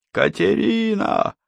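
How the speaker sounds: high desperate shout. Acted. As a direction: call out into the wind. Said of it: "кричал Хеннинг".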